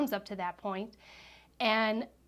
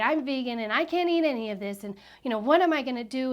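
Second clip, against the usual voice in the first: retold public announcement, a bit louder; mildly loud mimicry; 3 semitones higher, 6 dB louder than usual. Friend telling everybody about her guest's diet, retold loud announcement. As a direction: imitate a friend announcing it to the room. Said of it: "loudly tell everybody".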